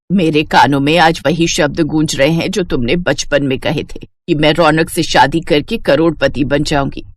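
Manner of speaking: put-on a rich mother stunned by old words; Rajrani's voice. Rajrani recalling childhood words.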